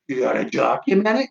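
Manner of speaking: baffled questioning echo, rising at the end; confused echo. Retold or imitated. Confused patient questions the phone woman, baffled echo. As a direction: throw her words back as a puzzled question. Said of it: "I'm so confused".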